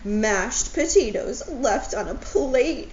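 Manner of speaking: a touch of hammed-up crying; mock crying. Owl cries over uneaten potatoes, mock crying. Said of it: "he cried".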